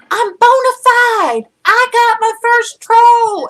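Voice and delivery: high, loud re-enacted boast, words stretched out; loud excited crowing. Streamer re-enacts celebrating her first troll, loud and excited. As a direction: crow it loudly, reliving the triumph. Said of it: "I was so loud".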